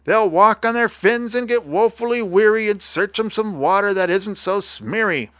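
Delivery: high-pitched creature lament; aggrieved little creature listing wrongs; indignant Lorax creature. A narrator's reading. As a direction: protest mournfully in a high cartoon voice.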